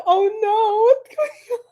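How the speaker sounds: high, loud mock panic; imitating a panicked client, voice cracking high; panicked quote. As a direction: play the stressed-out person freaking out. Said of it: "They're like".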